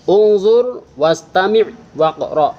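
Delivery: Ungzur wastami' waqra' said slowly and clearly; model Arabic command. Shown as a demonstration. Teacher modelling the instruction for pupils, slow and clear. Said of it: "perintahnya itu ungzur".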